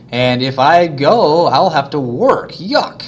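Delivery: mock disgust. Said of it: "a reluctant wealthy woman voiced".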